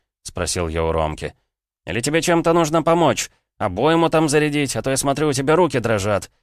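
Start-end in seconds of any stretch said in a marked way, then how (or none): 1.8-6.3 high, needling mock offer of help; irritated sarcastic friend. Friend needles the armed Roma, sarcastic and irritated. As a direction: offer help tauntingly, pitched up.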